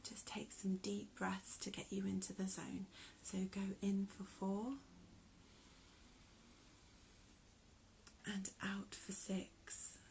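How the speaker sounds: gentle, softened meditation cue with long pauses; guided breathing. Real, not acted.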